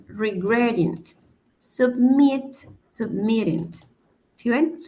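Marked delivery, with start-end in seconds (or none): 1.6-2.6 submit lifted on its last syllable, "sub-MIT"; stress on second syllable. Shown as a demonstration. English teacher demonstrates the second-syllable accent, submit stressed on -mit. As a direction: raise and lean on MIT in submit. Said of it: "la acentuación está en la segunda sílaba".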